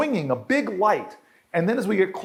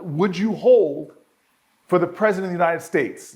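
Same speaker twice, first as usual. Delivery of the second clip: formal operator voice. Retold or imitated. Recalling the White House operator's call, a mild formal operator voice. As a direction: lightly mimic the White House operator's measured question. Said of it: "the person on the other side of the phone says".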